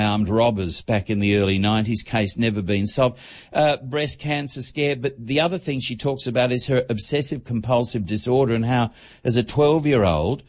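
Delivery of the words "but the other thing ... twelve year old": breathless, rushing through the list; out of breath. Real, not acted. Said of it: "I'm almost out of breath".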